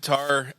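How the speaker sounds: "Qatar" as kuh-TAR; "Qatar" with an open, stressed second syllable; spelling pronunciation. Shown as a demonstration. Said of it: "It looks like Qatar".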